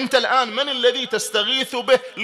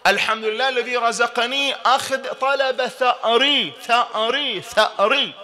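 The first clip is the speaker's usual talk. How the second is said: recited ziyara; 3 semitones higher than usual. Shown as a demonstration. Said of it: "نقرأ في زيارة عاشوراء".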